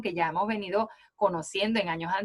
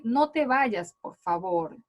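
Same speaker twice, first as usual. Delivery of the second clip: pleading; slower than usual. Shown as a demonstration. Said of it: "Lo hace como en sentido de una súplica".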